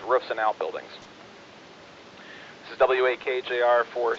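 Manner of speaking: steady bulletin read over the radio; terse radio update. Acted. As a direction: read the warning like a net controller. Reads warning text on net.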